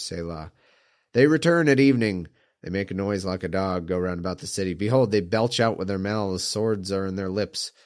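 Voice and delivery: measured psalm recitation; scripture reading. Acted. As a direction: read it like scripture, steady. Reads a psalm aloud.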